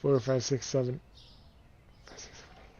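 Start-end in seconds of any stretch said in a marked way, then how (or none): 2.0-2.8 counting under the breath; muttered counting; whispered counting. Real, not acted.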